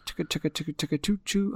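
soft chugging train sounds; quiet choo-choo imitation; train noise. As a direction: chug like a little toy train. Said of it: "Oh, wait, no. That was a train".

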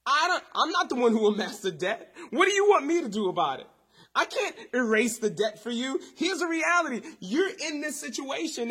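a mock impatient prophet waving her off, building; dismissive paraphrase. Preacher voicing a prophet brushing off the widow, dismissive and loud. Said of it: "in regular vernacular".

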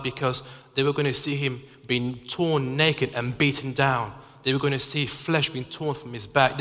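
mounting pulpit passion; rising sermon intensity. Acted. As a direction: drive the vivid picture home. Preaching builds in intensity.

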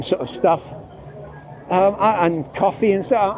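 muffled behind a mask; talking through a mask; through a face mask. Real, not acted. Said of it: "I'm speaking through a mask still".

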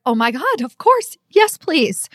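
overjoyed acceptance of an offer; thrilled. Retold or imitated. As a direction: gasp out a thrilled yes. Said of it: "And she's like".

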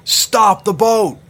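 loud, high, slow booming command. Acted. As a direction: boom it from the dock. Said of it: "I heard a booming voice".

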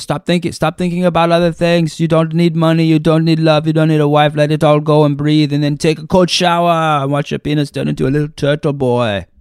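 imitating Wim Hof yelling. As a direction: bark orders like a breathing coach. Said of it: "he yells at you and says".

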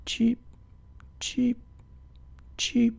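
small bird cheeps in a row; little chirps from up on the branch; bird cheeping. A narrator's reading. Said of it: "They could hear him cheeping".

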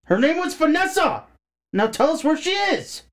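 high, loud furious demand; angry outburst. Acted. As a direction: slam the words down in anger. David slams table in anger.

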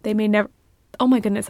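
talking through hiccups; words broken by a hiccup. Real, not acted. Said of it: "I have the hiccups".

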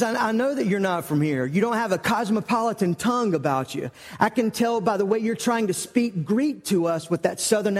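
insistent, I-can-tell retort; acted accusation. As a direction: lightly act out a girl calling someone out. Servant girl challenges Peter's accent.

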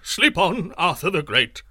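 scared sorcerer shouting at the king; frightened shout. A narrator's reading. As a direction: urge the king back to sleep in a panic. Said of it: "shouted the sorcerer".

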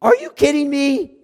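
incredulous mock shout, voice jumping up. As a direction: exclaim it in disbelief like Paul shouting. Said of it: "Paul would be shouting".

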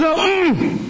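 put-on a boy telling his grandfather the right way to say his name; child's voice. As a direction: correct the grown-up patiently. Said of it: "He goes".

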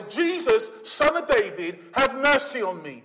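Jesus at the top of the voice, then mercy pressed hard. Acted. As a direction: raise the plea over the crowd. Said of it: "all the more louder".

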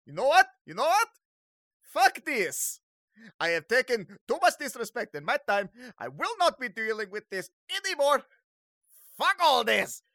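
high, loud theatrical outrage; fed-up villain. Acted. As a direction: erupt as an insulted villain. Insulted villain loses patience.

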